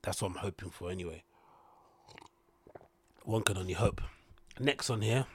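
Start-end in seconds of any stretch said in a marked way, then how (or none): 3.2-5.3 swallowing tea between words; gulping a drink. Real, not acted. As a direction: talk right after a big gulp. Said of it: "sorry about the gulping".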